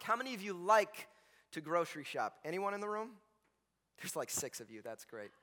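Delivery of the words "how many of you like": emphasize "like" with a rising end; LIKE leaned on, left hanging upward; stress on LIKE. Real, not acted. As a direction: make LIKE the point of the question. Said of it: "emphasis on the word like".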